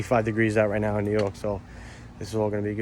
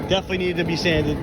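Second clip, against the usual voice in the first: yelling over leaf blower; 4 semitones higher, faster than usual. Real, not acted. Same words yelled near blower.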